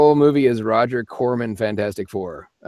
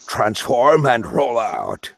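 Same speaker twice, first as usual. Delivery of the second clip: robot hero voice; much slower than usual. Shown as a demonstration. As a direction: announce it like a giant robot leader. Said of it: "Uh, yes, I can".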